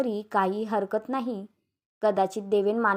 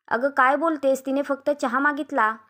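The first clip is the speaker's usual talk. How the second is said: higher-pitched, mildly scandalised protest; नाराज आई; 4 semitones higher, 3 dB louder than usual. Acted. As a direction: stand up for your daughter. आई सुनेला जाब विचारते. (नाराजीने जाब विचारत)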